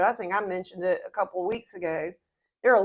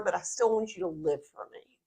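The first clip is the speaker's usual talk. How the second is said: Jesus; 3 semitones lower, 7 dB quieter than usual. Retold or imitated. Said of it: "what Jesus is really scoffing at".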